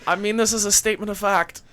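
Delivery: loud, fast, superior; haughty warning. Acted. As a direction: warn them coolly from on high. Noble threatens to disown companion.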